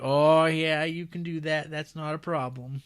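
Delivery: breezy hick reassurance; folksy Lincoln. Retold or imitated. Lincoln waving off payment, light high folksy voice.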